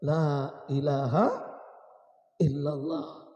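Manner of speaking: slow, drawn-out declaration of faith; solemn, unhurried final confession; dying last words. Acted. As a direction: stretch each word as a final utterance. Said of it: "terakhir dia mengucapkan kalimat".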